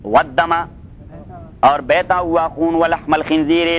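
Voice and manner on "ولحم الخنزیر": slow, drawn-out chanted recitation; slow Quran recitation. Shown as a demonstration. Teacher reciting the verse to his students, slow chanted recitation. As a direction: intone the verse slowly, stretching each word.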